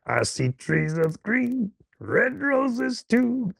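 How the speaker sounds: slow, gravel-voiced singing; impression of a famous jazz singer. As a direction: croon it slowly in a gruff jazz voice. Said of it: "the gruff ones are the hard ones".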